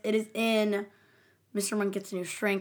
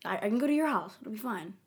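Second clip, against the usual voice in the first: mock wheedling, understated; acted-out bargaining. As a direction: coax them like you're cutting a deal. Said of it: "the next is bargaining".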